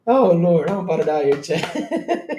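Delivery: worn out from real laughter; laughing hard. Real, not acted. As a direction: voice giving out into a wheezy laugh at the end. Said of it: "I'm laughing so hard".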